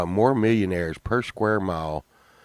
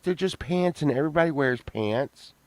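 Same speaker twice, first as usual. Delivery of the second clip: imitated Sunshine; 5 semitones higher than usual. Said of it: "She's like".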